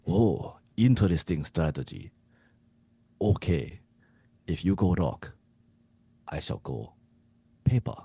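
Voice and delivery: measured, lightly voiced Japanese coach. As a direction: muse as the coach with dramatic pauses. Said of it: "you to be the Japanese coach".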